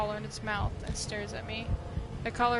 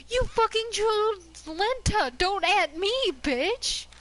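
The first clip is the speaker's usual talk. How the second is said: higher, loud accusing yell; furious shout; 9 semitones higher, 7 dB louder, slower than usual. Real, not acted. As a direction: blast it at the chat for the bad pick. Angry at chat's wrong choice.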